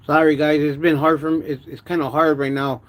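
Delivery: talking without front teeth; lisping through the gap, mouth watery; missing front teeth. Real, not acted. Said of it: "talk without my front teeth".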